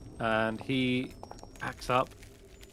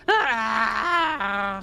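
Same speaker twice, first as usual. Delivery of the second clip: high shout as he drops; falling goblin scream; 10 semitones higher, 5 dB louder than usual. Acted. Spellix screaming as he falls off the edge. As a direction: yelp into the darkness.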